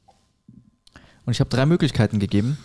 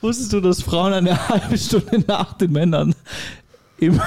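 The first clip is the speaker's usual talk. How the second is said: giggling through it; 4 semitones higher than usual. Real, not acted. Joke retold through laughter.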